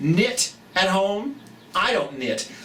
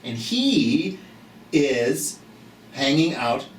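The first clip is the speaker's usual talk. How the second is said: storybook read-aloud for little ones; reading to children. Acted. Reads picture book aloud.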